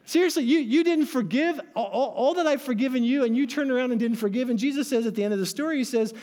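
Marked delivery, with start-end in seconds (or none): 0.1-4.5 higher-pitched, mildly acted indignation; incredulous reproach. King to the servant he had forgiven, incredulous. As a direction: confront with disbelief, stumbling over the words.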